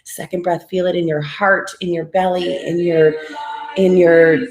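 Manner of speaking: steady, rhythmic breathing coach voice; guided breathwork. Acted. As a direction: pace them through each breath. Leads a guided breathing exercise.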